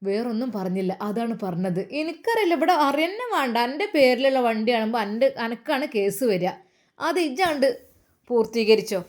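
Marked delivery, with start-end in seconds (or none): 2.0-9.0 irritated mother. Acted. Mother angrily refusing responsibility.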